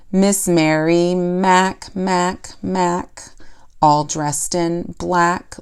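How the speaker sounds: "Miss Mary Mac, Mac, Mac" recited slowly in a steady jump-rope rhythm; clapping-rhyme beat. Shown as a demonstration. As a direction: chant "black, black, black" evenly, a small gap between the repeated words. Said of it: "We can kind of hear that beat".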